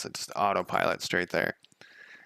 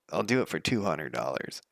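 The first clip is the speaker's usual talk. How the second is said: lightly voiced reluctant tradesman, pitched lower; low, lightly mocking imitation of a mover; reluctant mover's voice; 4 semitones lower than usual. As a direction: imitate a man grudgingly naming his price. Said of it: "that's, like, the voice he used".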